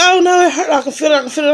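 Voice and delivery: retold hollering. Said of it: "I just started hollering".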